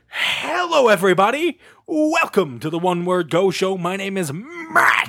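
big booming show-host welcome, drawn out; crazy announcer voice. Shown as a demonstration. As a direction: ham up the intro like a game show announcer. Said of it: "this crazy announcer voice".

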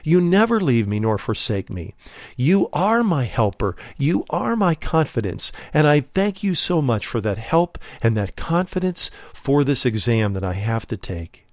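thankful prayer, lifted at the start; prayer of praise. Acted. Believer thanking the Lord before an exam, in praise. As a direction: pray it as confident thanks, stressing "are". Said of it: "we can say in praise".

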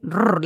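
rolled-R motor noise; long rattling rolled R; motor-like trill. Shown as a demonstration. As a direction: trill like a car engine. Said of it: "like a motor".

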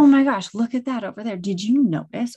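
excited distraction. Retold or imitated. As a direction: grab a child's attention with a burst of surprise. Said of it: "where I'm like".

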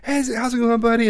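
high-pitched chummy hello; upbeat, buddy-to-buddy greeting; friendly greeting. Retold or imitated. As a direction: imitate a breezy, friendly greeting. Voicing nephew's cheery casual greeting.

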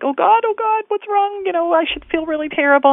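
high, anxious cry of worry; panicked self-quote. Retold or imitated. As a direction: voice jumps up in a frightened plea. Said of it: "I'd be like".

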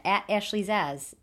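slow, light Boston accent on "at Ashley Zaz"; a hint of a Boston accent in "at Ashley Zaz". Real, not acted. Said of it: "I said that kind of, like, with a Boston accent".

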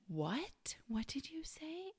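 hushed, breathless whisper rising on the question; scared whisper. Retold or imitated. Mother whispering to her daughter, scared of ghosts. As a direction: whisper it, afraid of what you'll hear.

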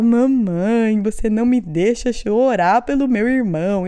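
mock wailing little boy; imitated crying child. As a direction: whine it out like a tearful kid, hammed up. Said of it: "começou a chorar".

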